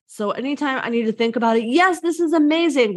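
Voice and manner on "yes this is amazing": fake enthusiasm. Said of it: "What they're really saying is, "No".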